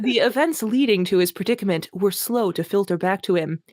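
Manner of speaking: mock-grand reading of purple prose; hammed-up literary reading; dramatic reading. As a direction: read it like overwrought fantasy. Reading a bad novel aloud.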